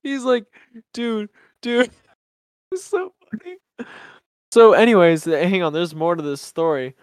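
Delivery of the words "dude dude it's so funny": breathless higher dude; laughing. Retold or imitated. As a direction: gasp it out laughing. Friend's reply, laughing.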